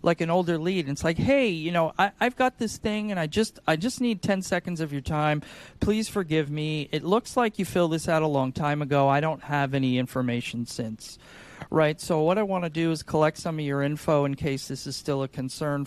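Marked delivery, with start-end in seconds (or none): 1.2-11.2 lightly sing-song plea for a moment; confused sing-song caller. Retold or imitated. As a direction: sound unsure and humble. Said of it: "Man, I'm confused, I'm sing-songy".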